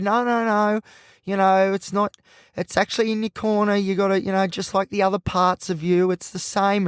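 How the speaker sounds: lightly voiced therapist setting someone straight; correcting psychologist. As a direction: gently overrule with lifted pitch. Retells psychologist correcting him.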